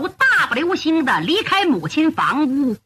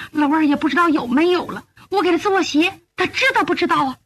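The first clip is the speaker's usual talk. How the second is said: higher, hurried lament of a mother; pining mother; 3 semitones higher, faster than usual. Acted. Mother missing her son as she makes shoes, pining. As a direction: fret aloud for your absent child.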